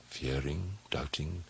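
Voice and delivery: hushed whispered word. A narrator's reading. Peering into darkness, he whispers in dread. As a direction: breathe it into the dark.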